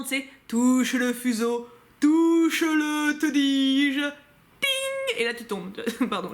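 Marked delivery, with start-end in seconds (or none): 0.5-4.0 slow, drawn-out, louder sinister command; fairy-tale villain voice, slow and commanding; evil fairy. Pretend. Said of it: "t'as l'impression d'être la Belle au bois dormant". 4.6-5.2 a high-pitched "ting" sound effect; mimicking the prick of the spindle.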